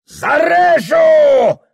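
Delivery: very loud, drawn-out roared threat; bellow. Acted. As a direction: roar it as a threat. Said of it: "вдруг гаркнул черкес".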